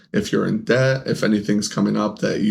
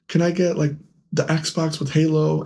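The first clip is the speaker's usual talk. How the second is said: higher-pitched asking for a present; pleading request; 6 semitones higher than usual. Retold or imitated. Asking his aunt or grandma for a game, high-pitched request. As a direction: ask sweetly high, drawing out the end.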